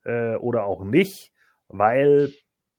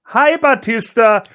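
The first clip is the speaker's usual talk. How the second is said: much higher, cheery greeting; 11 semitones higher, 10 dB louder than usual. Retold or imitated. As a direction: squeak it out brightly. Xia Li greets, high.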